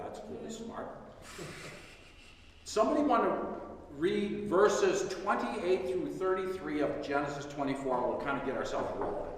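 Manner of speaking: talking through a mouthful; mouth full. Real, not acted. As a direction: speak around a bite of food. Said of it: "Now I'm gonna speak with my mouth full".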